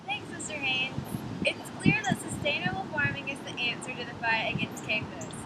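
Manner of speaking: very high sped-up cartoon voice; chipmunk voice. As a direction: speak like a sped-up tape.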